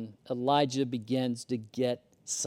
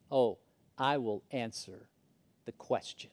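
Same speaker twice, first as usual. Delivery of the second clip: prideful colonel; 5 semitones lower, 7 dB quieter than usual. Retold or imitated. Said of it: "with somewhat of a prideful nature".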